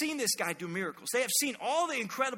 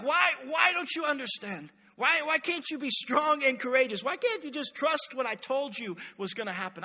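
pleading, higher-pitched exasperation; exasperated rebuke; 4 semitones higher than usual. Acted. Jesus to the panicking disciples after the storm, exasperated. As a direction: press the question in acted frustration.

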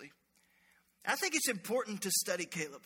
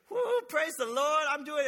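fake cheerful; 5 semitones higher, slower than usual.

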